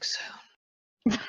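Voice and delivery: breathy unvoiced whisper. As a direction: whisper it lovingly to the books. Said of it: "Just whispering to them".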